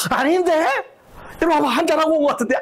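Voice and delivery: high, teasing accusation; a wife sniffing out a drink; high accusing wife; suspicious wife. Retold or imitated.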